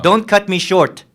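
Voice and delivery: slow, loud menace; slow warning. Acted. Lieutenant warning the prisoner not to interrupt, slow and loud. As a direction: lay each word down as a threat.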